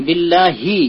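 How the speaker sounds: বিল্লাহি slow, the final হি with a clear ই sound; slow recitation. Shown as a demonstration. Teacher showing the ই-kar ending. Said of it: "একটু মারুফ করে পড়তে হবে".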